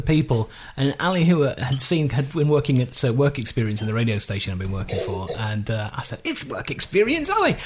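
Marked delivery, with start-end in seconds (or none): 6.2-7.5 DJ on the mic. Retold or imitated. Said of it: "Over the mic".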